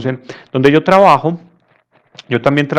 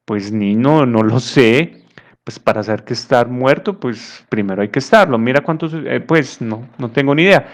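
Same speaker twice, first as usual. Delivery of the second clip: mildly impatient grandfather. Acted. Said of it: "con un poquito de impaciencia dijo".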